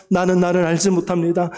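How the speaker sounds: 나는 나를 알지 못합니다 cried out in prayer; fervent cry. Real, not acted. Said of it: "통성으로 기도하겠습니다".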